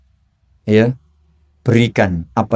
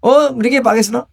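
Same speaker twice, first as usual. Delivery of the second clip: polite Javanese reply; 11 semitones higher than usual. Retold or imitated. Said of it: "mesti gitu kan".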